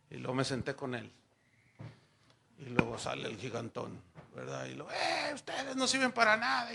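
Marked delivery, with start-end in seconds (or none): 4.9-6.7 higher mock taunt of a cartoon giant; a hint of a bullying giant; giant's taunt. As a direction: sneer like the giant at the Israelites.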